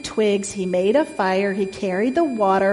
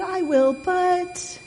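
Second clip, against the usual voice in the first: high, hesitant piglet; reluctantly agree, pitched up; squeaky little pig stalling; sighing piglet; 8 semitones higher, slower than usual. A narrator's reading. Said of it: "sighed the piglet".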